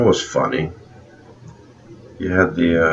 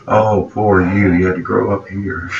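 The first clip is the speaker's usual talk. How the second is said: mock pity. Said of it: "That was Meg Ryan making fun".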